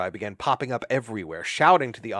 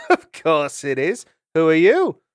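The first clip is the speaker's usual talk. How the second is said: indignant maid; 8 semitones higher, 11 dB louder than usual. Acted. Trimp muddy.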